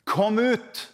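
loud, high call into the grave. Acted. Jesus calling into Lazarus' grave, loud high shout. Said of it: "Så roper han".

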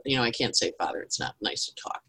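whispered shy confession; boy whispering. Acted. Altar boy whispering to the priest in confession. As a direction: hush it like a secret. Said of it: "He goes".

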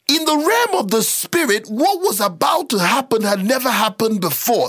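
real, insistent pulpit emphasis; emphatic preaching. Real, not acted. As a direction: press the point home, pitch climbing at the start. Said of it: "I'm sorry I'm yelling".

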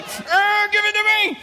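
put-on high straining child demand; straining kid. Big brother squeezing brother, straining demand. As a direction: grunt out the demand. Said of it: "I'm just like".

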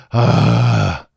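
long drawn-out "ah" of exasperation; exasperated sigh. Real, not acted. Reviewer giving up on the episode, exasperated sigh. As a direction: let out a long, weary sigh.

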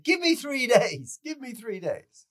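high-voiced plea for time; pleading quote. Pleading quote of a guilt-racked man.

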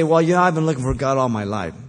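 hammed-up self-excuse; mocking quote. Preacher mocking what people always say. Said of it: "People always say".

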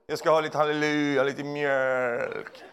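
a hint of holy voice while ordering milk; lightly churchy, laughing; mock pious shopping voice. Preacher imagines churchgoer shopping, mock pious. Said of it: "håller du på så när du går och handlar".

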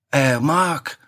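badly faked Swedish accent; failed Swedish accent. Comic voicing a Swedish model, botched Swedish accent. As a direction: try a Swedish accent and miss. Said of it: "That's not a Swedish accent".

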